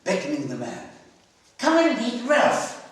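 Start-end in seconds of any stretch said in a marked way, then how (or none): 1.6-2.8 calling over. Acted. Susan beckons the man.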